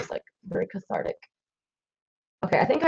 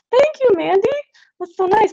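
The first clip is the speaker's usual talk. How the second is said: high-pitched, gushing gratitude; delighted thanks; 4 dB louder than usual. Real, not acted. Streamer thanking a viewer for buying a print, delighted. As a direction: thank them in a sweet, much higher voice.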